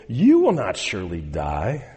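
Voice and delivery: low, hushed serpent's whisper, coaxing; sly serpent. Acted. Preacher voicing the serpent to Eve, low and hushed.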